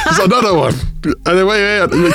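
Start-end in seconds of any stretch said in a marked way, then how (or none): 0.1-0.7 impression of a famous DJ and producer. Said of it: "you might as well just be D J Khaled".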